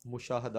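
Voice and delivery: مشاہدہ as "mu-shaa-ha-da"; correct pronunciation. Shown as a demonstration. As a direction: say مشاہدہ with u first, then a long aa. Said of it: "اصل لفظ جو ہے".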